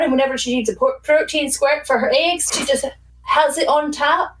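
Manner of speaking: fish facts in a Scottish voice; Scottish accent, in character; put-on Scottish accent. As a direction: play up a Scottish lilt. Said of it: "fish facts with a voice".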